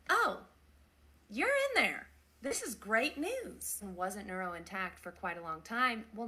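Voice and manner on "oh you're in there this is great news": thrilled. Retold or imitated. Nurse thrilled patient is responsive.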